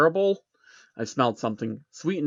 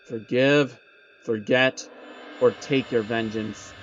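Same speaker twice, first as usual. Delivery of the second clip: slow, lightly voiced demon; a slow hint of a demonic judge; deep demonic voice; slower than usual. Demon offering the choice, slow lightly demonic. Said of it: "Its voice is deep, gravely demonic".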